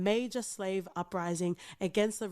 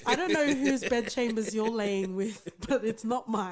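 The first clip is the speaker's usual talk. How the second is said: mock-grand proper Australian diction over a laugh; proper Australian accent. Co-host disowning the bogan, in proper Australian accent. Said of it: "that's your proper Australian accent".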